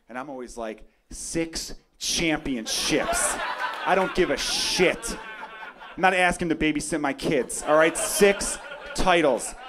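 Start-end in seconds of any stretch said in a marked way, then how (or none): 1.1-9.6 slow, punchy defiant shout; defiant fan rant. Acted. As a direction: bark it back at the doubters, laughing. Fan shouting back at critics.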